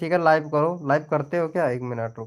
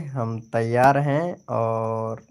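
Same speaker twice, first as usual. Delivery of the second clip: slow, lightly put-on voice of a friend; imitating Prem bhaiya; 2 semitones lower, much slower than usual. Quoting Prem bhaiya's live invite in a light mock voice. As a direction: mimic a friend's invitation, slowly. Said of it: "ऐसे बोल रहे थे".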